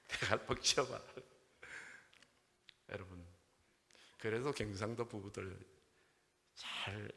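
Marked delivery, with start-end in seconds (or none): 0.1-1.0 lightly acted Gyeongsang order; Gyeongsang accent groom. Gyeongsang groom orders bride's head away, brusque Gyeongsang accent. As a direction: tell her off in Gyeongsang dialect. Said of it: "경상도 신랑이".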